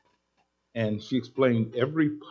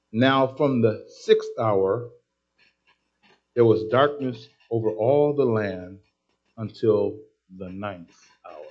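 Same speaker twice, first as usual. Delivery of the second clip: scripture reading; slower than usual. Shown as a demonstration. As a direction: read the verse out deliberately. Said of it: "Look at verse forty-five".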